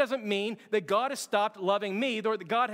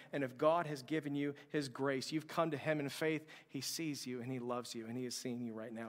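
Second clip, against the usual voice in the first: soft, low and intimate; tender reassurance; 5 semitones lower, 8 dB quieter than usual. Real, not acted. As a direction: drop right down to comfort the listener. Tender assurance to the congregation.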